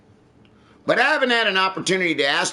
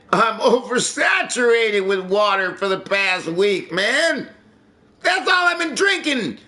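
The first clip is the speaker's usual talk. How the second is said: exasperated complaint; 4 semitones higher than usual. Real, not acted. Complaining about only drinking water.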